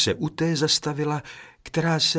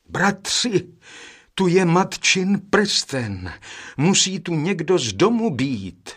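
higher, louder, slow joyful shout; joyful cry; 7 semitones higher, 3 dB louder than usual. A narrator's reading. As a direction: cry out happily having found the ring. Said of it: "vzkřikl radostně nejstarší".

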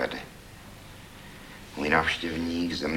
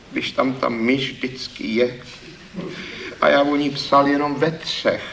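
a touch of gloom, voice lifted higher; lightly voiced downcast poet; dejected; 7 semitones higher than usual. The poet admits his theme, mildly dejected and high. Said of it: "Pravil hlas malomyslně".

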